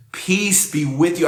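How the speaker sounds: slow, smiling words of peace; gently imagined Jesus greeting his friends. Acted. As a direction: say it through a smile, unhurried. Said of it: "I imagine he was smiling".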